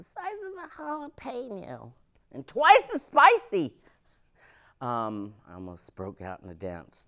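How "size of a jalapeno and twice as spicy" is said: sassy aside. Acted. Comic describing tiny mom.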